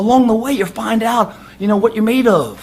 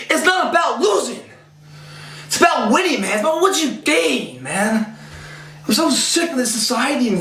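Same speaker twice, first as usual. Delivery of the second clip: fired up; 3 semitones higher than usual. Real, not acted. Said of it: "I'm getting fucking emotional here".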